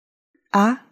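"ah" rising like a question; second-tone "ah". Shown as a demonstration. Asking people to repeat what they said, second-tone "ah". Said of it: "to second tone".

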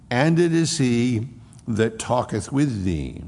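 slow, solemn King James reading; scripture reading. Acted. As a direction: read the old words with weight.

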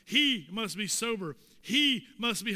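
"He" punched loud at the start; stress on He. Real, not acted. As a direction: hit the word "He" hard, then ease off. Hammering the pronoun he.

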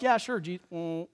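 mock drowsy reply that breaks off; dozing off. Disciples answer Jesus while falling asleep, mock dozing off. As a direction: nod off halfway through the name. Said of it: "they're asleep".

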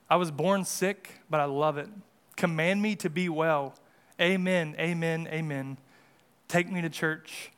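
song lyrics read line by line, unsung, with pauses; spoken lyric reading. Real, not acted. Preacher reading a song to show the world's broken ways, spoken lyric reading. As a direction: recite the lyrics like verse, without singing. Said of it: "read a song that I won't sing".

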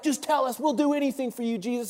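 high, eager pleading; fired up. Acted. Disciples begging Jesus for instructions, fired up. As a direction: beg for orders, keen to please. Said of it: "they're all fired up".

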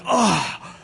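mock gasp of a scandalized crowd; exaggerated "how dare you" gasp; shocked gasp. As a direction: gasp along with the offended passengers. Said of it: "everyone in the first few rows".

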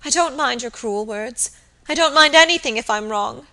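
high, agitated, imploring voice; distraught apology. A narrator's reading. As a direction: plead through distress. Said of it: "sobbed Phoebe".

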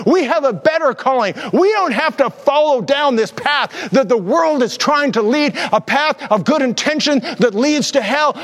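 building sermon cadence; preaching. Acted. Pastor exhorting the church, a rising preaching cadence. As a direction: preach it to the congregation, rising in fervour.

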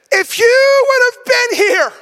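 Martha's reproach. Acted. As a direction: hurl the blame at him in grief. Martha reproaches Jesus, grieving.

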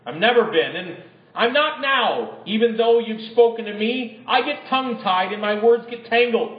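a hint of a whiny, pleading Moses. Moses begging the Lord to send someone else, pleading. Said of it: "But Moses pleaded with the Lord".

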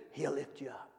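very soft, low answer; hushed. Shown as a demonstration. Preacher answering his own question to the congregation, hushed. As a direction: drop right down, almost under the breath.

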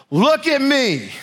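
high, very slow and menacing; voice of fear. Acted. Fear personified looming over the listener, slow high menace. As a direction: play fear taunting its victim, stretched out and high. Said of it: "this is how fear works".

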